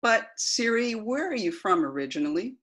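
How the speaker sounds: repeating to voice assistant. Acted. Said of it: "this is the transcript of that conversation".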